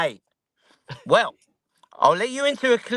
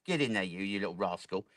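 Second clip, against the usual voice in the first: much softer, fond scolding; soft affectionate; 11 semitones lower, 10 dB quieter, faster than usual. Real, not acted. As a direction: coo at a cheeky pet. Talking softly to the millipede.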